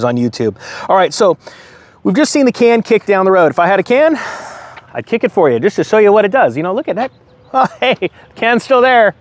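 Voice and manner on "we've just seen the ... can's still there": sarcastic. Acted. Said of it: "use some sarcasm".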